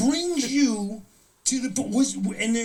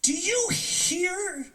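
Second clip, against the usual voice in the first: mock decree shout; 9 semitones higher than usual. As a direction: bellow it like a pompous decree. Mock announcing the passport bill.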